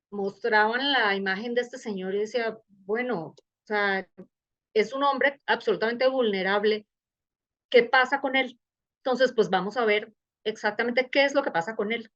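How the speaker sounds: usual speaking voice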